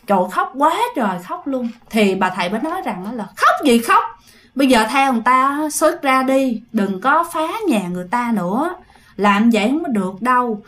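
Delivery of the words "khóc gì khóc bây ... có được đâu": scolding shaman. Retold or imitated. Shaman scolding the ghost clinging to the father, sharp and stern.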